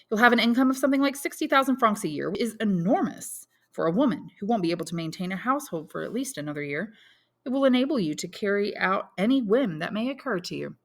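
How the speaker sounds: Debray coolly laying out her money; lightly voiced Debray.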